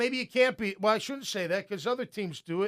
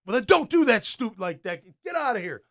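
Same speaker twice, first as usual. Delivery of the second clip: coach scolding; 4 semitones higher, 4 dB louder than usual. Retold or imitated. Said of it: "Tomlin is yelling at him".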